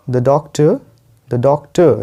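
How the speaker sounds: "doctor" ending in a schwa without r; silent final r. Shown as a demonstration. Teacher showing learners the r is not pronounced in "doctor". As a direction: drop the r at the end of "doctor". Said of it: "मैं आर नहीं pronounce कर रहा हूँ".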